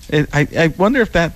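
normal talking voice

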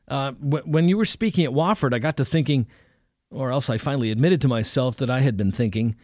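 put-on a young student fumbling for an excuse; nervous young man. Young man caught out, nervously bluffing to the preacher. Young narrator confesses hesitantly.

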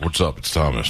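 tough guy voice. Shown as a demonstration. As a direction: push it from the gut like a sit-up. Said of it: "kinda scrunch your belly muscles".

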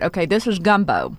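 talking through a mouthful of soup; words round a bite of food; mouth full. Real, not acted. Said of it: "I hate to talk with my mouth full".

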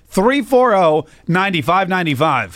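slow, drawn-out number read; phone number read-out. Acted. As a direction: announce the number slowly. Radio host reading call-in number.

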